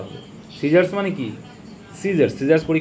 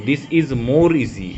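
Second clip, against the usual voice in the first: 1 slow read-out; much slower than usual. Shown as a demonstration. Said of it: "মোরটা হবে না".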